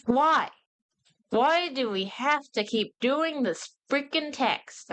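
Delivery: high, slow, exasperated complaint; sick of reading the tiny text; exasperated rant. Real, not acted. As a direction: drag it out, utterly fed up. Ranting at comic's hard-to-read text.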